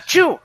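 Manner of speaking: tiny high squeaky sneeze; a sharp squeak of a sneeze, very high; Smurf sneeze. Retold or imitated. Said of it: "he sneezes like a Smurf".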